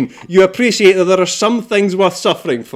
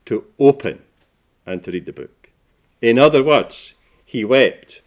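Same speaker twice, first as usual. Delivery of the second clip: solemn scripture reading; 7 semitones lower than usual. Acted. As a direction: read it gravely, phrase by phrase. Preacher reads verse and explains gravely.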